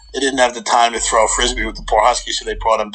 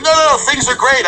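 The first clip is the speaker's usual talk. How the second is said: defensive; 12 semitones higher, 3 dB louder than usual. Retold or imitated. Defensive denial to worried friends.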